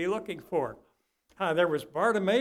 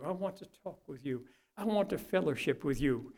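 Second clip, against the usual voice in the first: sincere prayer. Acted. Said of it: "we need to cry out to God".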